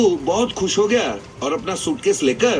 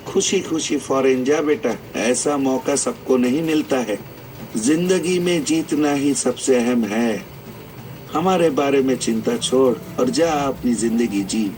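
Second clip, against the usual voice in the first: put-on old father; 5 semitones lower than usual. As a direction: bless the son gently, a bit lower. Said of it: "उसके बाप ने कहा". (हल्के से निभाई पिता की धीमी आवाज़)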